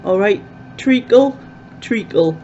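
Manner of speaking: a weak Cockney treacle, the t dropped into a glottal stop; attempted Cockney. Fan trying a Cockney treacle, faint mock Cockney accent. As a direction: try a mock Cockney all right treacle. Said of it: "Doesn't even sound Cockney".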